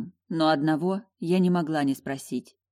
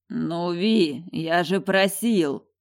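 displeased hiss; much slower than usual. Acted. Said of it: "недовольно шикнул Эльмар".

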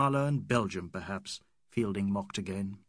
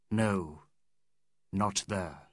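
voice of the sky; 5 semitones lower, much slower than usual. Acted. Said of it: "And the sky said".

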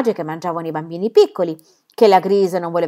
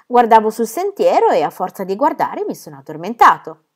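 put-on much higher, louder, pleading little boy; small child; 4 semitones higher, 5 dB louder than usual. Little Pierre pleads with his father, high childish begging. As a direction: beg like a tiny child clinging to his dad.

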